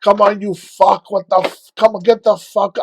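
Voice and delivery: loud, high, drawn-out furious cursing; retold enraged yell at his own leg; angry screaming at himself. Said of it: "I was so angry".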